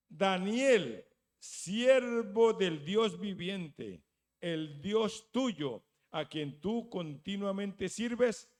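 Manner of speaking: slow, loud, mournful call; calling sadly. Acted. The king calling to Daniel in the lions' den, loud and mournful. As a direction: call down into the pit, grieving. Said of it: "llamó a voces a Daniel con voz triste".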